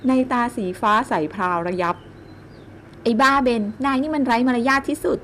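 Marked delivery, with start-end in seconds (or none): 2.5-5.2 higher, slow scolding of a rude man; angry snap. A narrator's reading. Woman scolding the man who startled her, higher and slow. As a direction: she snaps at the intruder, clearly cross. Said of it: "เจ้าหล่อนตวาดแวดเสียงดัง".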